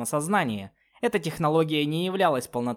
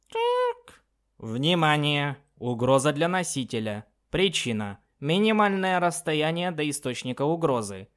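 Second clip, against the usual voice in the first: artificial voice; 4 semitones higher than usual. Acted. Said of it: "некий искусственный голос".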